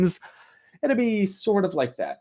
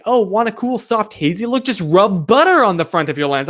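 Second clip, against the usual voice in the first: higher, chirpy mocking of a photo hack; lightly parodied influencer pitch; mock tutorial hack voice; 4 semitones higher, 4 dB louder than usual. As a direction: imitate a cheesy tips video. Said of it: "It's like".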